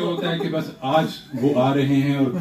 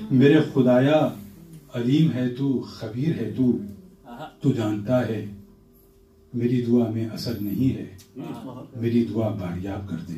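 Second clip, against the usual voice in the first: stately nazm recitation. Acted. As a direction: let the prayer settle gently. Poet recites his prayer nazm.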